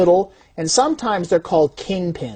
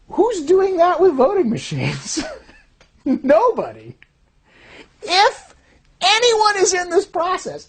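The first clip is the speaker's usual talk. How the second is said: high, slow, heated rhetorical question; rising indignation; 10 semitones higher, slower than usual. Real, not acted. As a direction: press it with mounting alarm. Rhetorical outburst.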